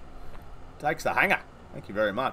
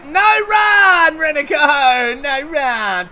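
shouting a call; 6 semitones higher, 5 dB louder, much slower than usual. Real, not acted. Calling to the batter in game.

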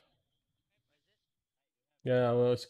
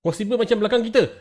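shouting; 9 semitones higher, 5 dB louder, faster than usual. Real, not acted. Firefight callouts.

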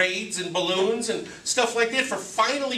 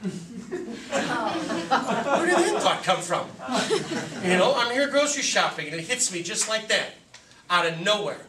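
laughing; 3 semitones higher, slower than usual. Real, not acted. Laughs at his own thought.

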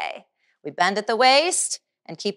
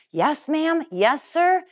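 polite reply; 7 semitones higher, slower than usual. Shown as a demonstration. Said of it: "do this all around".

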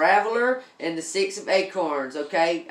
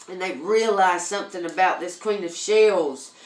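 excited reveal; 6 dB louder than usual. Real, not acted. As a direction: build up and land the big reveal. Excited reveal of soulmate card.

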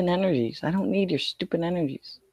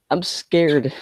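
mock scared; 5 dB louder than usual. Mock fear during losing match.

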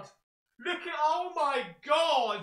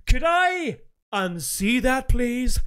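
slower, louder, with a laugh breaking through; louder, laughing plea; 3 dB louder, slower than usual. Shown as a demonstration. Streamer asking viewers again, louder and half laughing. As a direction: call out again, half laughing, for the scene to be taken back.

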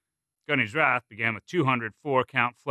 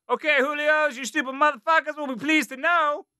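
drill sergeant yelling. A narrator's reading. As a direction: bark it like a gunny. Drill sergeant addressing platoon.

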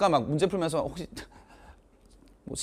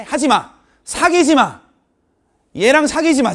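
loud, high cry of warning; mock urgent warning; 6 semitones higher, 6 dB louder than usual. Teacher warns students off dating a bad guy, mock urgent shout. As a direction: shout them off, playing it up.

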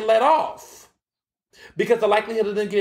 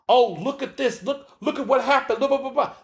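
higher-pitched, derisive gawking at a replay; mock the eager onlookers pointing at the clip; put-on excited babble, mocking; mock playback commentary; 6 semitones higher than usual. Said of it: "treating this like an N F L playback".

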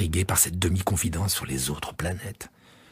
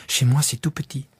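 put-on higher young voice, "moi" lifted; childlike stress on moi; 5 semitones higher than usual. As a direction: Chez moi said brightly by the child. Prince stresses tiny home.

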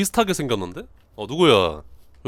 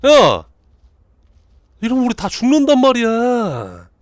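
loud, high, wailing protest; desperate yelling; 8 semitones higher, 8 dB louder, slower than usual. Pretend. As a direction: yell as if doom is coming. Yells that they will die.

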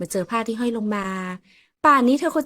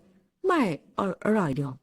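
mouth-full denial; much slower than usual. Acted. Kilan chews sour mango, lying.

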